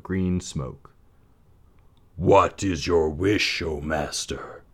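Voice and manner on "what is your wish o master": slow, grand genie of the lamp; slow, booming servant genie; rumbling genie. A narrator's reading. Lamp genie asking his master's wish, slow and grand. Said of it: "he rumbled".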